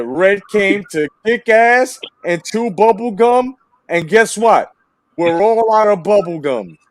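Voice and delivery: movie one-liner quote. Retold or imitated. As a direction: deliver it like the action hero. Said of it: "let me say it for you".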